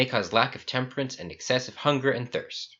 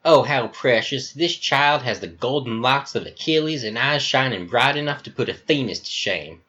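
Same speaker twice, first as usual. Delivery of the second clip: put-on flamboyant Southern accent; 4 semitones higher than usual. Talk Now hugging Epsilon, gushing Southern accent. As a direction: greet him like a long lost darling. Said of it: "He has an American Southern accent".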